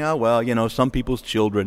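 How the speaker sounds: low, offhand shrug of a voice; imitated complacent dismissal; mock resignation. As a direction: brush it off as none of your business.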